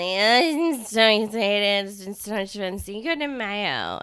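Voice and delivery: put-on gushing tipsy party girl; slurry drunk excitement, drawn out. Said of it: "you're so good at a drunk voice".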